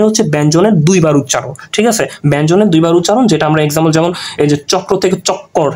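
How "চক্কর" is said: চক্কর with a clear double k; doubled consonant. Shown as a demonstration. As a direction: hold the kk in চক্কর. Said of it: "এই যে ক ক আসতেছে".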